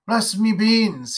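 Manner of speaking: a hint of a sheepish country father; rustic chuckle. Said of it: "he said".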